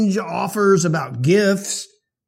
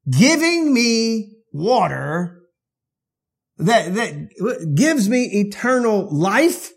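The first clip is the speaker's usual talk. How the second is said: slow, disbelieving question; incredulous; 4 semitones higher, slower than usual. Retold or imitated. Woman hearing of eternal life, slow and incredulous. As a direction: draw it out in disbelief. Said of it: "he's getting really outrageous".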